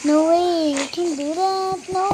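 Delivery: loud alarmed protest; panicking, half pleading; phobic panic. Acted. Panicking at the bath scare.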